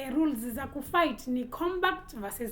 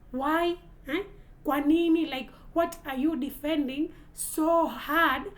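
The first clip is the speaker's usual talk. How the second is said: loud, higher, indignant demand; outraged why; 3 semitones higher, 4 dB louder than usual. Real, not acted. Vlogger demanding why places of worship are bombed, loud and indignant. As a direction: throw the question at them.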